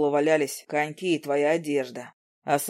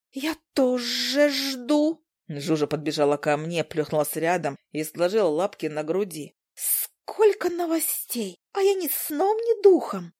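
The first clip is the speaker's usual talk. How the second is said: tiny, very high, slow buzzy chatter; an eager little insect begging for gossip; Zhuzha the fly; 7 semitones higher than usual. Acted. Zhuzha the fly pestering Izi for news, squeaky and eager.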